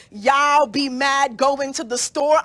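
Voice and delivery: slow teasing line, quoting mom's slang; drawn out like mom teasing; a hint of a teasing mother; mocking mom. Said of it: "mommy mocks me and says".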